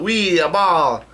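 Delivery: high, drawn-out gleeful squeal; high-pitched playful whoop; excited cat yell. A narrator's reading. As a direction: yell it like a delighted cat, stretching the words. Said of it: "the cat yells out".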